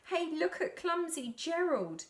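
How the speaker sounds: mock him like the crowd; mocking jeer. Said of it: "the animals all laughed".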